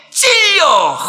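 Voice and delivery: loud, high cry of the word 찔려; shout on cue. Shown as a demonstration. Pastor leading the congregation's response, shouting 찔려 loudly. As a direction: belt out 찔려 sharply on the count. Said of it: "시작".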